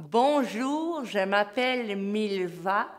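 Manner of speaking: slow speech around a pencil; biting a pencil while speaking; pencil in mouth. Shown as a demonstration. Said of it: "difficile de parler avec un crayon dans la bouche".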